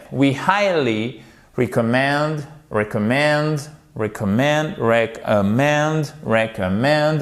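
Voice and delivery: recommend, repeated with the stress on the end; stress drill. Shown as a demonstration. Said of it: "Vous avez votre accent tonique ici". (répéter recommend avec l'accent tonique à la fin)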